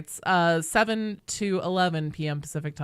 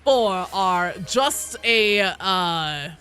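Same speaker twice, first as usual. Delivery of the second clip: slow, smoker's croak; slow words in a heavy smoker's voice; three-pack-a-day voice; much slower than usual. Real, not acted. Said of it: "three pack a day voice".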